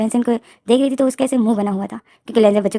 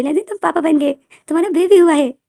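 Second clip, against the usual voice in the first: higher, happy announcement; delighted; 7 semitones higher, 4 dB louder than usual. Acted. Mother telling her son he became a papa, delighted. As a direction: tell him proudly.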